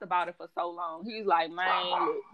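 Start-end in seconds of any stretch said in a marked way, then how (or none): 1.5-2.2 lightly imitated slow talker; a hint of a slow talker, pauses after "look"; slow-talking client. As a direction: mimic a client's easygoing complaint. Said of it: "like, a slow talking person".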